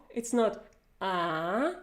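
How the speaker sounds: "ah" flattened toward "a" as in cat, the wrong way; slow, a flat English "ah" shown as a mistake; the English-style "ah" said slowly as the error. Shown as a demonstration. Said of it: "ah is pronounced with the front part".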